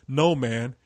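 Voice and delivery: slow, booming mock-ominous announcement. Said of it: "It was so ominous".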